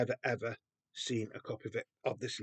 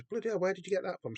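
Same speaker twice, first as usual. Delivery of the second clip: higher, quick, astonished question; retold astonishment; 7 semitones higher, faster than usual. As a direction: imitate his amazed reaction in a rush. Retold chap's astonished reaction.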